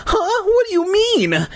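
high, frightened choked question. A narrator's reading. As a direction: force it out through fear. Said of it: "I choked out".

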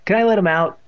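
put-on keen child asking permission; eager. A narrator's reading. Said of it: "Evan asked eagerly".

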